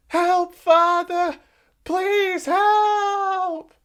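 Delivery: put-on high, desperate boy begging; pleading cry. A narrator's reading. Boy begs his father as the wolf nears, high plea. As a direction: beg your father to come. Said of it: "cried the shepherd's son".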